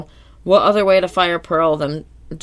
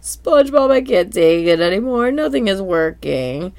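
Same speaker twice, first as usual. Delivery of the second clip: mock distraught Pearl; 3 semitones higher than usual. Pearl falling apart to SpongeBob, mock distraught. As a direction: wail it out like a fed-up teen. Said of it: "Pearl just loses her mind".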